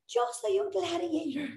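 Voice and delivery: mimicking Carmen's timid first attempt; exaggerated timid gladiator. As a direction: say it small and unsure, mocking. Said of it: "lo que estoy exagerando".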